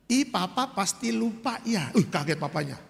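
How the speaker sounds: lightly voiced coy wife, slowed; mock cutesy baby talk; coy childish sweetness. Wife teasing forgetful husband, a light coy childish tone. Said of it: "jadi kecentilan begini kayak anak kecil".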